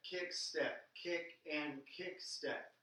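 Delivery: flat, lifeless counting. Shown as a demonstration. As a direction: say it with no bounce. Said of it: "I have no pulse".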